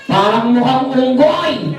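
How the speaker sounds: high, slow teasing puppet voice; cheeky puppet. Acted. Puppet Ayo jokes to the children in a high teasing voice. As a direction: tease them like a naughty puppet.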